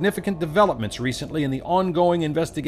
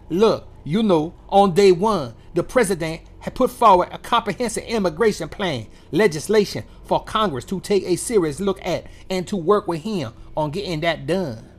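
lightly put-on French-tinged accent; a mocking take on the press secretary's accent; mock Jean-Pierre accent; 3 semitones higher than usual. Host mocks press secretary, imitating her accent with a sneer. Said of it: "that's my accent for her".

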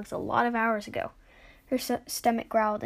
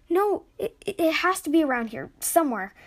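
flustered; 5 semitones higher, 3 dB louder than usual. Acted. Denying loss desperately.

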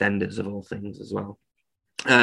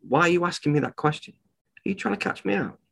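quick, higher, sharp challenge; sharp retort; 6 semitones higher, 4 dB quieter, faster than usual. Retold or imitated. Eloquent keeper rebuffing an interviewer, quick and sharp. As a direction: snap back suspicious and fast. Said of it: "like Francis, go on and".

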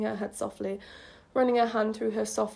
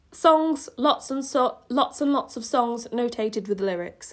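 incredulous repeat; 2 semitones higher, 4 dB louder than usual. Real, not acted. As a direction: repeat it in disbelief. Repeats own line in disbelief.

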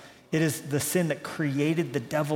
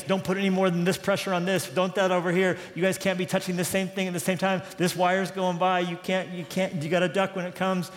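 higher-pitched run of warnings, one after another; rattled-off list; 4 semitones higher than usual. Retold or imitated. Capcom warning spacewalkers of hazards, rattled off in a higher voice. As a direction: reel off the cautions like mission control. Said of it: "she rattled off this list of things".

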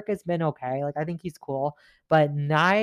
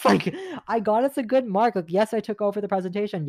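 laughing while protesting, pitched up; half laugh, half outrage; laughing indignation; 4 semitones higher than usual. Real, not acted. Venting about Michelle, laughing in disbelief. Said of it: "I'm getting so mad".

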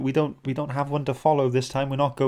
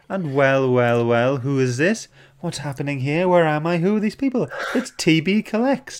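mock surprise; 3 semitones higher, 5 dB louder than usual. Playful mock surprise at arriving viewer.

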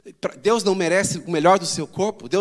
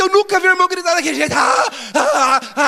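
stadium shout; 10 semitones higher, 7 dB louder than usual. Retold or imitated. Mimics fans shouting at stadium.

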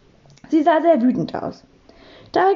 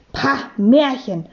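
langsames, abfälliges Schnauben; verächtlich schnaubend; slower than usual. A narrator's reading. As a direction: die Worte gedehnt und verächtlich abtun. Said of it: "schnaubte Frau Sauermann". (geringschätzig geschnaubt)

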